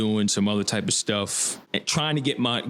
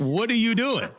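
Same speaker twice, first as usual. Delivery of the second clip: much higher, incredulous squeak; mock disbelief; 12 semitones higher than usual. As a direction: toss it up high in mock disbelief. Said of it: "I'm like".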